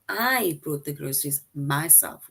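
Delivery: "I" stretched out as the strongest word; stress on I. Shown as a demonstration. Teacher explaining who did the shopping, emphasis on "I". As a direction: lean on "I" at the start of the sentence. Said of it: "puts emphasis on the word I".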